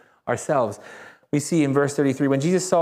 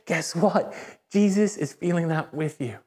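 gentle empathy. Acted. Preacher telling a hurting listener Jesus feels it too, gently. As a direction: offer comfort to someone hurting, understated. Mirrors the hurt person's mood.

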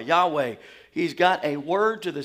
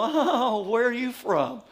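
amused city folk; 5 semitones higher, slower than usual. Retold or imitated. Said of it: "thing that city folk do".

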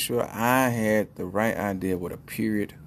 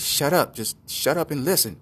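raised-pitch, punched "shut up"; mock exasperated command; impatient hushing; 6 semitones higher than usual. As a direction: cut off a friend's questions. Acted husband silencing his homie.

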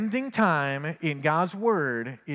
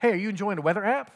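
higher and fast, rattling off questions; eager son; 4 semitones higher, faster than usual. Retold or imitated. Son excitedly quizzing his dad about iPhone apps, fast and high. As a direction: pepper him with questions, all enthusiasm. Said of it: "I was like".

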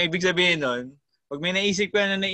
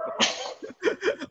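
high breathless laugh; 4 dB quieter than usual. Real, not acted. Laughs at recording bad ideas.

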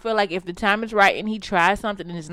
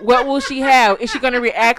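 laughing; 4 semitones higher, 6 dB louder than usual. Real, not acted. Laughing repeat.

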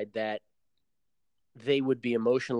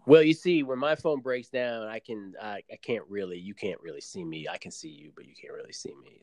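lightly acted evasive caller fading away; mock phone excuse. Podcast host mimicking an online suitor's broken phone excuse, fading out.

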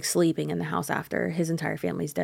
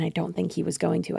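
ordinary talk, nothing marked

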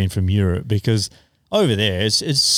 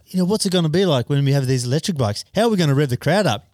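put-on Spanish accent; 5 semitones higher, faster than usual. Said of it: "The Spanish accent isn't too flash".

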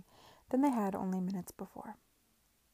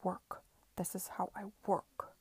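icy; 3 dB quieter than usual. Acted. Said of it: "said Sidney icily".

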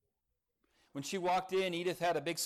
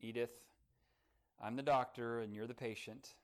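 gently; 5 semitones lower, 5 dB quieter than usual. A narrator's reading. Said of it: "said gently".

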